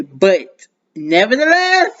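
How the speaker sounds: BUT set firmly apart, NEVERTHELESS drawn out and rising; slow, emphatic "But nevertheless". Shown as a demonstration. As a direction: lean on "But", then stretch "nevertheless" slowly upward. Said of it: "I gotta put that "but" in there".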